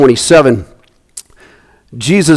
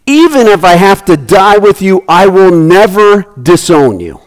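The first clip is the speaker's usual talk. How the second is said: emphatic insistence; 4 semitones higher than usual. Acted. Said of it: "Peter insisted emphatically".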